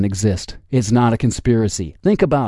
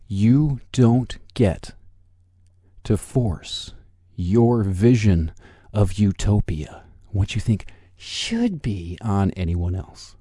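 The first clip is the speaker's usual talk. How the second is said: forced calm; slower than usual. Real, not acted. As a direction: spell it out slowly with strained patience. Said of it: "as calmly as I can".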